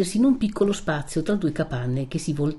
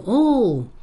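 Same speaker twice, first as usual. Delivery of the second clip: higher-pitched "oh!" to hail someone; calling out; 6 semitones higher, 4 dB louder than usual. A narrator's reading. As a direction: call to someone from behind. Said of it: "una chiamata che pareva diretta a lui".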